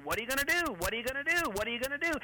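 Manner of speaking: pestering question on a loop, landing on DO; lightly acted nagging in quick repeats; nagging Satan. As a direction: keep needling with the same question. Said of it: "He keeps saying".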